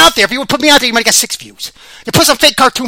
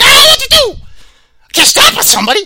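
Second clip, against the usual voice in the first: high, strained impression of a confused fighter; mocking Vanderlei; 3 dB louder than usual. Host mimics lost fighter Vanderlei, high whiny voice. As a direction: whine it out lost and helpless, much higher. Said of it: "Vanderlei Silva was like".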